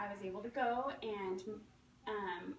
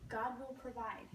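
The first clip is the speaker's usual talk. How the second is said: calmly; 4 dB quieter than usual. Acted. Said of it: "he replies calmly".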